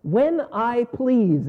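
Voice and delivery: when I please, slowed right down; slow emphasis. Shown as a demonstration. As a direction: dwell on "when I please" word by word.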